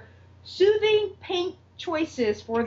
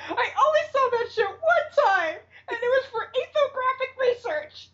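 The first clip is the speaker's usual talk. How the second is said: laughing through quote; 12 semitones higher than usual. Retold or imitated. Quoting Mara's comeback, laughing.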